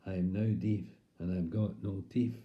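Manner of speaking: "teeth" said "teef"; f for th at the end of "teeth"; impaired speech. Acted. Keith lamenting his losses, mildly voiced speech impairment. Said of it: "as he said".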